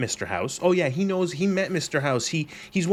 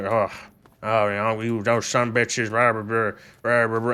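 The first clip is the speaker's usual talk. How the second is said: gruff mock ghoul voice; 4 semitones lower than usual. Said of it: "he's gonna be talking like this".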